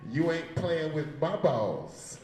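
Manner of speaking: the punchline again, drawn out for the mic. Shown as a demonstration. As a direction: land the punchline slowly, right on the mic. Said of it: "I wanted to say it into the mic".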